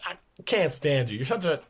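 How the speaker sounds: high, slow mock exasperation; exasperated coach. Coach Barnes sputtering at Grant, high slow mock exasperation. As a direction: sputter like a fed-up old coach. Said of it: "He's like".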